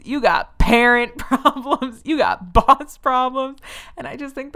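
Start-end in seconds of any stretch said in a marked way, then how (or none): 0.0-2.0 higher, slow mock frontman with a laugh breaking in; mocking a singer. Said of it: "he's like". 2.0-3.6 higher, slow, loud mock rock-star preaching; mocking a singer. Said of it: "he's like".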